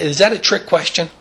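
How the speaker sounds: high creaky granny reply; old lady voice. Retold or imitated. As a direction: answer like a stiff-backed old lady. Stelta puzzled.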